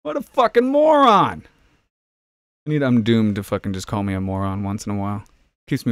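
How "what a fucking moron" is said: high, loud shrieked insult; drunken ogre bellow. Pretend. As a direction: bellow it in a screechy put-on voice. A shouted insult in a put-on voice.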